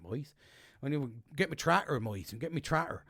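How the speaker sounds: put-on jokey Wiltshire farmer accent; a touch of Wiltshire yokel accent. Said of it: "trying to talk in a little Wiltshire accent".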